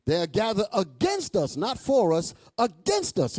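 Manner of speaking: "against" hit hard each time, set against "for"; stress on against. Real, not acted. Preacher explains the verse to listeners, punching "against". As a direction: drive home the word "against". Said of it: "I like to put emphasis on that".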